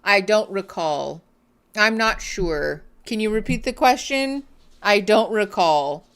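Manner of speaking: lightly voiced politician dodging, I don't recall; a hint of a slippery witness; evasive politician. Commentator mocks the husband like a lightly voiced evasive politician. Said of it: "future in politics".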